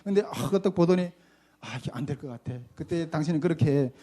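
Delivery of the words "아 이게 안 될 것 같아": low, dismissive mutter; a hint of a busy pastor turning you down; 1 mumbled brush-off. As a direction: mumble a quick no as you walk away.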